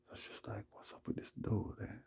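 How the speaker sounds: hushed wondering; conspiratorial whisper. Real, not acted. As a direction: lean in and whisper the suspicion. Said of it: "private aside about dude".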